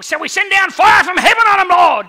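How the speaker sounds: high, loud shout calling down fire; hotheaded disciples yelling to call down fire; angry disciples' shout. Retold or imitated. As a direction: bellow it like hotheaded disciples itching for a fight. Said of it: "and James and John will".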